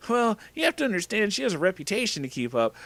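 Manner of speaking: put-on high-pitched boyfriend voice; defensive Crash. A narrator's reading. Boyfriend defending his girlfriend, high-pitched voice. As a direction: defend her in a high character voice. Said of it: "trying to defend his girlfriend".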